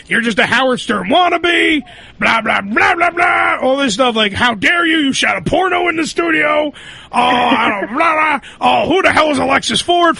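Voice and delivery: mock-angry boss shouting blah, blah; retold yelling boss. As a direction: play the ranting program director, half shouted. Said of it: "starts yelling at me going".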